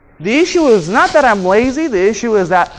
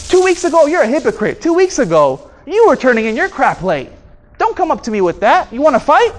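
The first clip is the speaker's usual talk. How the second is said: aggressive comeback; 4 semitones higher than usual. Shown as a demonstration. Demonstrating the wrong aggressive reply to the coworker. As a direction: snap back like you're picking a fight. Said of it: "I'm being aggressive".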